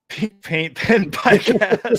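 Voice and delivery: high, slow, loud mock announcer; slow, high mock announcement with a laugh. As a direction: hype the show name like a radio jingle. Announcing the podcast name.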